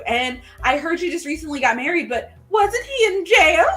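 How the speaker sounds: high, gushing mock-polite greeting that rises into a jab; catty interviewer. Interviewer needles a job candidate about her husband, catty.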